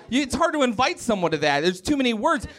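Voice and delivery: usual speaking voice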